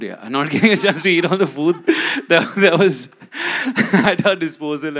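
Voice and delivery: laughing through the words. Real, not acted. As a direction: giggle while telling it. Laughs about missing the food.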